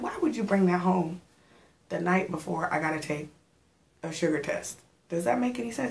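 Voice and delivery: telling her man off for the sweets, incredulous; exasperated scolding. Retold or imitated. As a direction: scold him with mock disbelief. Arguing with her man over sweets.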